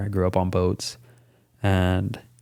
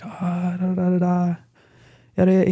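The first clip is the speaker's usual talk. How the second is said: higher, dismissive sing-song; mock brush-off; 7 semitones higher than usual. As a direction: wave it off in a mock voice. Mocking own reply.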